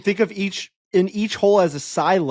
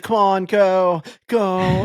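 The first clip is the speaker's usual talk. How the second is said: mild mock Northern Irish urging, drawn out; slow, lightly Northern Irish pleading; Northern Irish yelling; much slower than usual. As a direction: imitate a golfer coaxing the ball in Northern Irish. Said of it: "yelling in his little Northern Irish accent".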